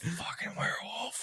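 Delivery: hushed, breathy aside; whisper. Real, not acted. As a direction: whisper it like a secret.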